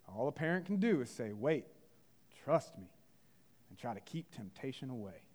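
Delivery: put-on Carolina accent, in measured phrases; Andy Taylor. Father answering a drifter about raising his son, Carolina accent. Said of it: "do my best Carolina accent".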